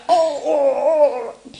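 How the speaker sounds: high, laughing oh-oh-oh; laughing through a child's gasps. Retold or imitated. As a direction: act the boy's shocked giggle. Son reacting to the story.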